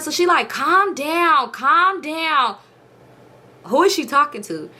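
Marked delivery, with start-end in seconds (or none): 0.5-2.6 put-on high, lightly babyish soothing. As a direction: imitate her telling him to calm down. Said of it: "this little baby voice".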